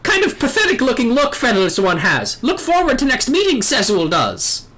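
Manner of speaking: lightly voiced squawking bird-man; a hint of a proud little bird creature; Ixal bird voice. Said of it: "do all the Ixal voices like this".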